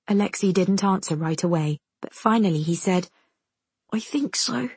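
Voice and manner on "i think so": put-on high, little child's voice; timid young brother; small boy. A narrator's reading. Frightened young brother answers.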